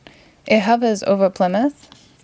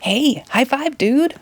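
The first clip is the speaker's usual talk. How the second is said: mild vampire shout; 4 semitones higher than usual. Acted. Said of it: "a vampire shouts".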